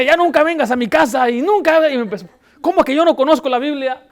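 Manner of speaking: high, loud retold shouting; angry yelling woman. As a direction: yell like an offended lioness. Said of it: "Empezó a gritar hasta corretear".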